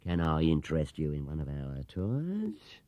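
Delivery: unctuous and slow; smooth salesman. Acted. Clerk pitching tours to Paddington, oily. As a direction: lay it on thick to make a sale.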